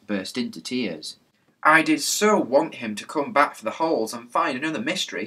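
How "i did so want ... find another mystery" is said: wailing. Acted. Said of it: "she wailed".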